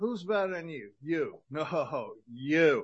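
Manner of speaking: put-on Jersey accent. Acting out two people arguing over who's better, in a New Jersey accent. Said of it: "You know the Jersey accent?".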